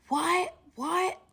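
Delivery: two sharp, high, loud what's; pissed-off screaming. Retold or imitated. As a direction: shout it in furious disbelief. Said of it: "he's just screaming and he's pissed off".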